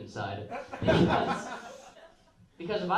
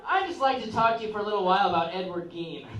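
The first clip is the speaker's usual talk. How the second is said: bright giddy quote; 7 semitones higher, 5 dB louder than usual. Retold or imitated. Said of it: "And I said to him".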